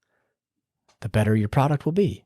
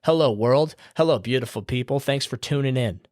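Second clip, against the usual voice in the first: podcast greeting; 2 semitones higher than usual. Shown as a demonstration. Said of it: "Look at your audience".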